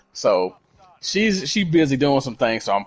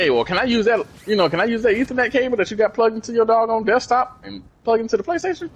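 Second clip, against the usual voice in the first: lightly raised, mock sweet asking voice; mock polite request; 10 semitones higher than usual. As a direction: ask it with a put-on sweetness. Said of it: "I was just like".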